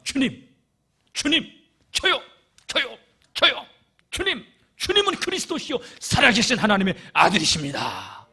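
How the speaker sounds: high, loud, eager hand-raising cries; eager Peter answering. Acted. Peter eagerly calls out his answer to Jesus, high and loud. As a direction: shout it out like the keenest pupil in class.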